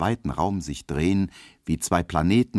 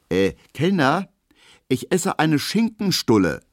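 calling out quickly; 10 semitones higher, 5 dB louder than usual. A narrator's reading. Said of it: "ruft Emil Kubinke schnell".

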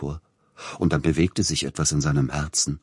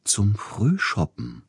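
gentle; 7 semitones higher, slower than usual. A narrator's reading. Agent sweetly naming the morning gathering, gentle. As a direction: say it gently, slow and lifted. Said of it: "sagte Siegfried Neugebauer sanft".

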